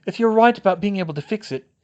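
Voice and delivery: growled. A narrator's reading. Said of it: "Bill growled".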